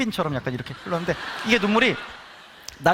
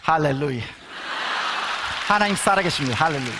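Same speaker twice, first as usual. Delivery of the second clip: pastor's proclamation; 5 semitones lower than usual. Retold or imitated. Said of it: "전도사님이 딱 나오셔가지고".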